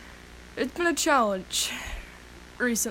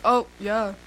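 voice crack; 5 dB louder than usual. Real, not acted. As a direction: voice cracking mid-word. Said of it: "Wonderful voice crack".

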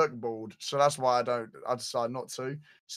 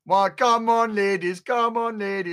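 loud, high showman call; mock boss man bravado, pitched up and loud; hammed-up swagger; 6 semitones higher, 7 dB louder, slower than usual. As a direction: strut and hype the crowd. Hyping himself as boss man.

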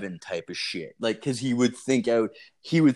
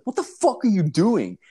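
baffled outburst; 9 semitones higher, 4 dB louder than usual. Retold or imitated. Friend fixing tire at 2 am.

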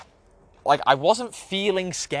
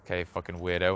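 dismissive; 7 semitones lower, 5 dB quieter, faster than usual. Retold or imitated. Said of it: "they just look at me like".

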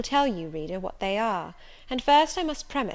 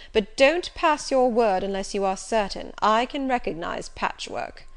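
Rochester, commanding; 5 dB louder than usual. Acted. Rochester mocking Jane.

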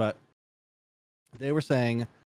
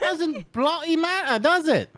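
high, slow hammed-up British; mock British accent; 3 dB louder, slower than usual. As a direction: ham up the posh Brit.

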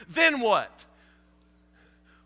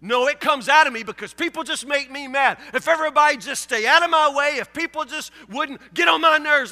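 whiny put-upon excuse, a touch louder; mock resentful listener; 3 semitones higher, 4 dB louder than usual. Preacher voicing a church member's excuse, mock whiny. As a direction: play the member blaming everyone else.

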